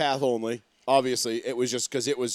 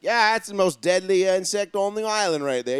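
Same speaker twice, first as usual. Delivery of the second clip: mock Australian accent; 5 semitones higher than usual. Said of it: "That's much better".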